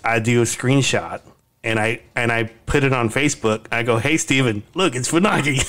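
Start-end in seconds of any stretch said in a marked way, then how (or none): 4.0-5.6 lightly mock-excited announcement; teasing call-out. Uncle teasing nephew on Facebook, playful call-out. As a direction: needle him playfully, lifting the pitch.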